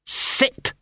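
unvoiced, rough one-word command; a dog's attempt at a human order; dog speaking human. A narrator's reading. Gaspode commanding leaping dogs in human, rough command. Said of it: "said Gaspode in passable human".

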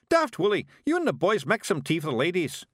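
loud, high pixie bellow; shouting orders. A narrator's reading. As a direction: bark orders at the lads. Rob ordering the pixies about.

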